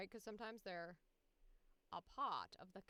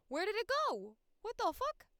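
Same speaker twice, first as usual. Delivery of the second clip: very high, loud shriek of disbelief; real panic; 13 semitones higher, 12 dB louder than usual. Real, not acted. Streamer hunting for the deleted file, panicked shriek. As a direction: yell in startled panic, voice shooting up.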